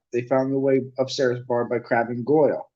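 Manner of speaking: ordinary delivery, nothing marked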